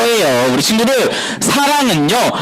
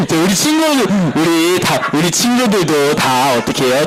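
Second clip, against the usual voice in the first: ordinary delivery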